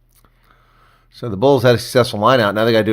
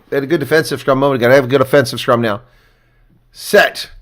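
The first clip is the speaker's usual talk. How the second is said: usual speaking voice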